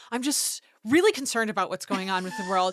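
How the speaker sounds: bright, loud, overly polite caller voice; sweet phone voice for a politician's office; customer service voice. Retold or imitated. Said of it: "I put on my customer service, uh, theater voice".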